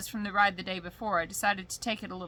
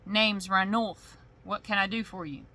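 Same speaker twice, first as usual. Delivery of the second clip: drawling sheriff. Acted. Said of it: "my accent got all thick".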